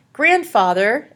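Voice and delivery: loud, high cry upward; yelled call. A narrator's reading. Annabelle cries to her grandfather in the sky. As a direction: call for help with all you have. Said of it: "Annabelle yelled toward the sky".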